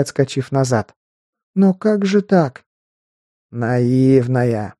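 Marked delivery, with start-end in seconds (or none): 1.5-2.6 high, slow stunned question; shocked disbelief. Acted. Girl stunned by broken blade. 3.5-4.7 satisfied smirk. Acted. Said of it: "довольная усмешка".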